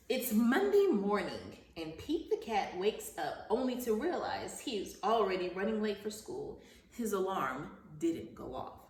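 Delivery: animated picture-book narration; reading to children. Acted. Teacher reading Pete the Cat to her class, storybook narration. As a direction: read the story aloud to young pupils, lively at the start.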